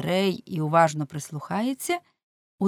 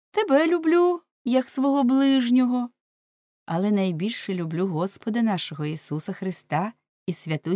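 higher-pitched pious woman; благочестива жіночка; 4 semitones higher than usual. Acted. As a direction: lift the voice into a devout woman's confession. (високий голос побожної жінки)

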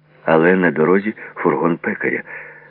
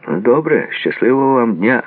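high, loud send-off; called farewell; 7 semitones higher, 5 dB louder than usual. A narrator's reading. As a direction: call out a goodbye. Postman calls out a goodbye.

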